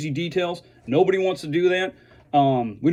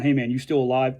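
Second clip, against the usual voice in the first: mean it, a real question of concern; serious. Retold or imitated. Worried friend checking on a struggling vet, sincerely. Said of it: "They're, they're actually serious".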